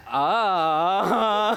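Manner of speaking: creaky door groan with a laugh; creaking groaning door voice. Acted. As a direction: mimic the door swinging. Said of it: "दरवाजाचा आवाज काढला".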